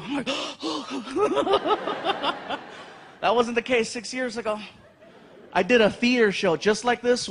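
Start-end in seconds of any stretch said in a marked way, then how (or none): 0.3-2.6 big high gasp of fake shock; mock gasp. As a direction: gasp like you've been caught.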